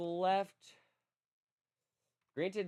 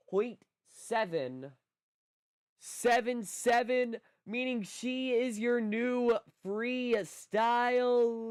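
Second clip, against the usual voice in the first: announcer voice; 3 semitones higher than usual. Acted. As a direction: announce the winner like a ringside host. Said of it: "Let me put on my best announcer voice".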